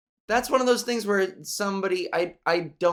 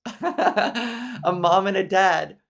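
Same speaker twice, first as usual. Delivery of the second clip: slow words through laughter; laughing; 2 semitones higher, 5 dB louder, much slower than usual. Real, not acted. Laughing at the classroom joke. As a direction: chuckle it out slowly. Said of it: "laughing at own joke".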